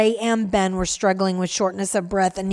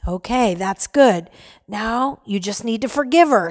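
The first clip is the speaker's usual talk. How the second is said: gentle. Acted. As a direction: calmly coax her along. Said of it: "Stephen said gently".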